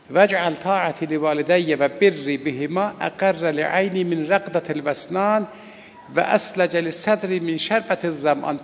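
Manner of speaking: slow, measured Arabic recitation; prayer recitation. Acted. Preacher reads the Sajjadiyya prayer aloud to his listeners, measured recitation. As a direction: recite the supplication with reverence.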